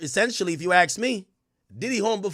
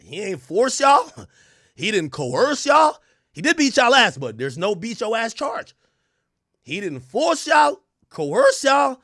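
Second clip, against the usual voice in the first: mock court ruling; 4 dB louder, slower than usual. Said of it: "they basically just said".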